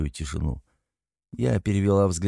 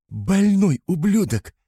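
screamed insult; 11 semitones higher, 4 dB louder, slower than usual. A narrator's reading.

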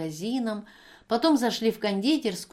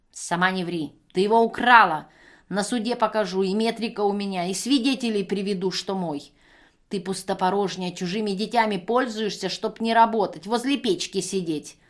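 put-on drunken abuse; 5 dB louder than usual. Пьяная женщина бранится.

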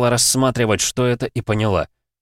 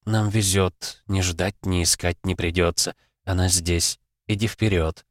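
cold low voice; 3 semitones lower, 4 dB quieter than usual. Acted. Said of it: "её холодный низкий голос".

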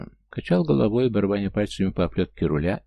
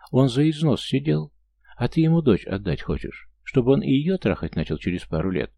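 angry cop; 6 semitones higher than usual. Acted. Angry cop confronts her. (злой опер, медленно и зло)

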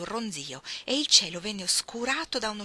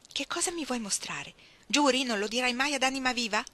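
lightly voiced girl, higher and eager; curious Ruth; 6 semitones higher than usual. Ruth asking Iggy to swear, lightly voiced eager. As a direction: press her for a secret.

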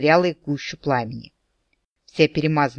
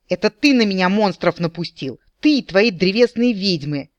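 a moderate, raised accusing yell; furious yelling; 4 semitones higher, 3 dB louder than usual. Acted. The maiden hurls accusations back at the captain, mildly yelling. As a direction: work yourself up into a yell. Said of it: "истошными воплями".

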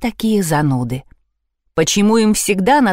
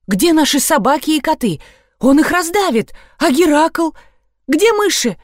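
frightened; 8 semitones higher than usual. A narrator's reading. Panicked heroine fears for pets.

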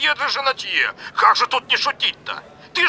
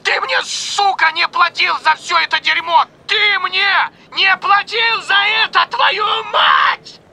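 high-pitched, slow, furious scream; enraged shrieking tirade; near screech; 7 semitones higher, slower than usual. A narrator's reading. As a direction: scream each phrase out, high and stretched. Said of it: "Он почти перешёл на визг".

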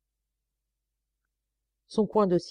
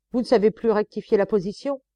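higher, louder scornful rebuke; berating; 4 semitones higher, 5 dB louder than usual. Acted. Sergeant scolding the trembling prisoner, louder. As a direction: scold him like a drill sergeant.

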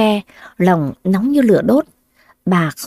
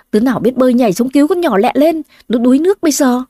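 urgent shout; 3 semitones higher, faster than usual. Acted. Villagers urging rescue.

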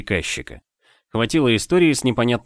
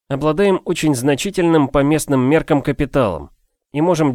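lightly voiced confident gentleman; 5 semitones higher than usual. Narrator voices his own character.

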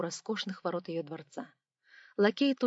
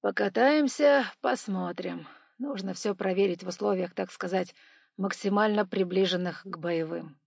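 musing aloud; 4 dB louder than usual. Acted. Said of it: "вслух размышлял Квашнин".

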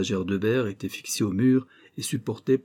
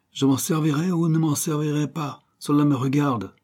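higher, louder angry growl; a villain growling at his rival partner; growling anger; 6 semitones higher, 5 dB louder than usual. A narrator's reading. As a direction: snap back at his partner. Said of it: "gronda Dawes".

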